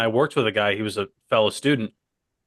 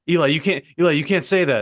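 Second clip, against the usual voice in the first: slightly raised, urgent mock scolding; mildly mad boss; 4 semitones higher, faster than usual. Boss telling off an employee on headset, mock annoyed. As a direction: scold in a higher, insistent voice. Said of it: "he was getting mad".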